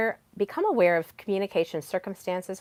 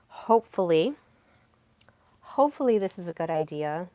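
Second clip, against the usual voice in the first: tentative, rising "Hopefully" left open; hedging modifier. Shown as a demonstration. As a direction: float "Hopefully" upward, unsure of the idea. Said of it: "having modifiers, um, also is another way".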